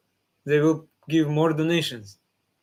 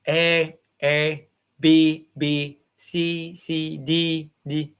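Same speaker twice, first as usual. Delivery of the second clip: put-on child repeating; much slower than usual. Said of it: "please repeat, my son".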